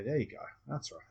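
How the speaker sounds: gentle. Shown as a demonstration. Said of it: "you can just gently say".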